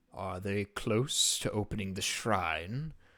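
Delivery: distorted, warped, unnatural-sounding voice. The narrator voices a reply to the woman's speech: distorted voice. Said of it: "you sort of hear the distorted voice".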